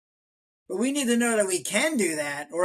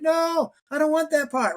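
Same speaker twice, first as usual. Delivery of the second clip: mock refusal; 9 semitones higher, 4 dB louder than usual. Brain-injured woman refusing fear.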